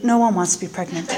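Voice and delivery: low, deadpan put-down; dismissive mother. Retold or imitated. Mother correcting her daughter about pregnancy, low dismissive deadpan. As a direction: drop the voice and dismiss it as obvious.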